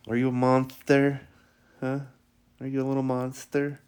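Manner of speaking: loud, playful puppy talk; mock-menacing play with a dog; playful teasing.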